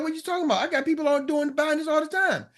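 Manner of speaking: high-pitched, disbelieving comeback; incredulous retort. Retold or imitated. The speaker answering someone who says nobody will buy, incredulous. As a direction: retell a baffled rebuttal, pitched well up. Acts his rebuttal to naysayers.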